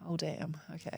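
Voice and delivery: soft breathy whisper of dawning realization; retold whisper, damn caught off guard. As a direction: hush it like a private oh no. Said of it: "I was like".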